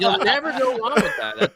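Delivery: said high and loud through laughter; laughing. Real, not acted. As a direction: laugh while you agree. Laughing at plastic joke.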